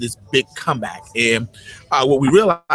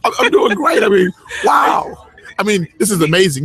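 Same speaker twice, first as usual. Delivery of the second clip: high and loud, bursting with excitement; excited; 7 semitones higher, 4 dB louder than usual. Real, not acted. Guest thrilled to be on show.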